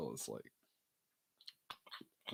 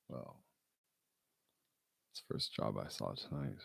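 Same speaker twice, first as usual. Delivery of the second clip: vampire dude; 8 semitones lower, 4 dB quieter than usual. Retold or imitated. Friend imitates a vampire boss hiring him, low and creepy. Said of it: "vampire dude".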